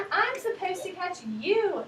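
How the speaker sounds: a hint of a cat's meow in the words; teacher reading the cat's line. A narrator's reading. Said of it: "meowed the cat".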